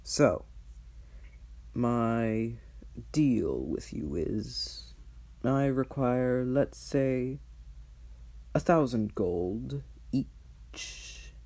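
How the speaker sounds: lightly voiced cold archdevil; dragon voice. Mammon states his deal.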